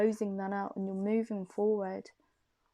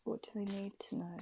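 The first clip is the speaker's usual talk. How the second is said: softer, quicker murmur of the question; fading ask; 8 dB quieter, faster than usual. Real, not acted. Shuffling cards and asking them, a fading murmur. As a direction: let it drift away as you ask.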